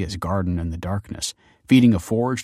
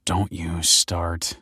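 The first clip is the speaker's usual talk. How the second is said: groaning; much slower than usual. Acted. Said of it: "groaned Michael".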